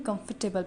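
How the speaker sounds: कंफर्टेबल with the R left silent. Shown as a demonstration. Teacher shows students the silent R in कंफर्टेबल. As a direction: say कंफर्टेबल without sounding its R. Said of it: "R को जो है वो silent कर देंगे".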